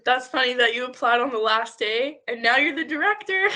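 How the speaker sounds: amused, laughing as you speak. Real, not acted. Host amused by last-day application.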